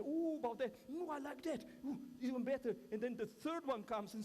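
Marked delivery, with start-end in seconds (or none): 0.0-2.7 excited approval. Retold or imitated. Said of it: "And they say".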